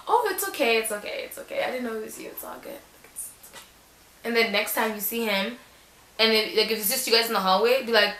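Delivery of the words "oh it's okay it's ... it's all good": mock flustered sweetness. Acted sweet reply to crush.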